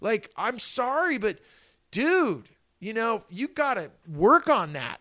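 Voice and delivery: a hint of a blunt but fond bandmate; retold bandmate telling him he's a dick; imitating bandmate. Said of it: "our guitar player goes".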